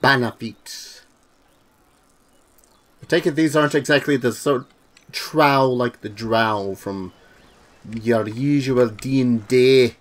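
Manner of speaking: put-on half-hearted Scottish accent, copying the game voice; a tentative Scottish lilt, slowing on the name; trying the Scottish accent. Streamer mimics the game's Scottish shopkeeper in a light Scottish accent. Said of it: "I'm trying out the accent".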